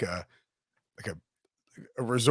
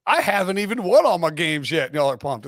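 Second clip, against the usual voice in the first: fake Southern accent; 3 semitones higher than usual. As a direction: imitate an outsider faking a Southern boast. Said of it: "nobody from the South would say that".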